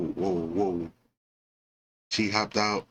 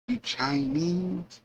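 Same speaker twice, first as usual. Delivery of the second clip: mock incredulous; 10 semitones higher, much slower than usual. Jesse's hostile question retold.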